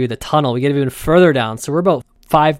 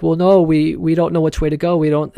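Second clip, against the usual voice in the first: higher, lightly voiced dithering tourist; indecisive tourists; 3 semitones higher, 3 dB louder than usual. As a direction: dither like you can't choose a way. Voicing the indecisive people.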